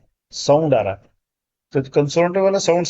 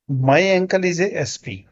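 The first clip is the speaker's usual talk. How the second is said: slow model reading; 2 semitones higher, much slower than usual. Shown as a demonstration. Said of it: "ठीक है sir".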